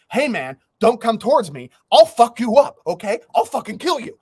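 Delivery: half-hearted impression of a furious neighbor; mock angry threat. Retelling the neighbor threatening him, mock angry yell.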